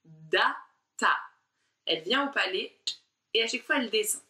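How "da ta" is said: Da and ta struck hard with the tongue on the palate; exaggerated syllables. Shown as a demonstration. Teacher showing tongue placement on each syllable. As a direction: tap Da, ta crisply off the palate. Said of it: "regardez ce que votre langue fait".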